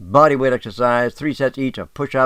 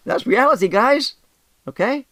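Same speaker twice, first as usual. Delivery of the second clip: laughing; 13 semitones higher, 4 dB louder than usual. Real, not acted. Laughing after his point.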